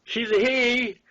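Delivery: shouted out high and loud across the boardwalk; yelling back at the crowd. Retold or imitated. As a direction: call it out loud after them. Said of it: "I yell".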